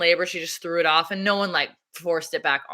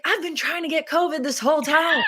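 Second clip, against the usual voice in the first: laughing; 8 semitones higher than usual. Retold or imitated. Retells her own reply laughing.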